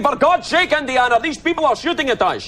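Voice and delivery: high mock Sean Connery; Sean Connery impression. Scottish teenagers imitating Sean Connery, high and mocking. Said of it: "talking like this".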